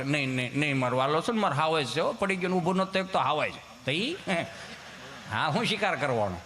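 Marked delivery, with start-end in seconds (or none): 0.0-3.5 lightly voiced mother comforting her crying son; soothing mother. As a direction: gently hush the little one. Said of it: "છોકરો રોતો હોય ને સાનું રાખે".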